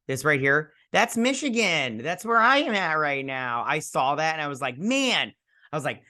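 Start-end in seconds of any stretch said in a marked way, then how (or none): 0.9-3.6 excited pointing out. Real, not acted. Excited spotting of home state. 4.8-5.3 high, drawn-out exclamation; excited reaction. Retold or imitated. Reacting to seeing home state.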